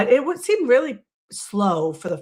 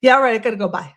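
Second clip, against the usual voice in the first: brusque, louder hurry-off; abrupt phone goodbye; 2 semitones higher, 6 dB louder, much faster than usual. Retold or imitated. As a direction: snap the call shut. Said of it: "I'm abrupt on the phone too".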